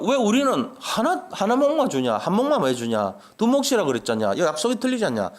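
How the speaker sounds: imitating people talking back, starting high; mock indignant challenge, pitch settling as it goes; defiant protest. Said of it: "이렇게 막 대드는 거예요".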